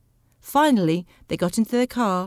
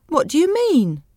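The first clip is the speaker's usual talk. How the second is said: higher, louder affronted question; offended disbelief; indignant challenge; 8 semitones higher, 5 dB louder than usual. Acted. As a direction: demand an explanation. Husband protests at being blamed.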